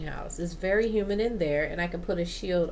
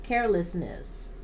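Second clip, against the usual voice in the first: measured informational read-aloud; steady reading from a guide. Real, not acted. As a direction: read it out from a plant-care book. Reads a plant guide aloud.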